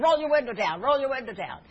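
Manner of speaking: urgent demand. Retold or imitated. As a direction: insist hard, repeat the order. Stranger demands she open window.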